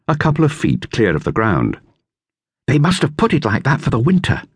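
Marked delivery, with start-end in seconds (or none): 2.7-4.4 higher, lightly voiced boy; boy's voice, lifted higher; Dick. A narrator's reading. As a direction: read it as young Dick. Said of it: "said Dick".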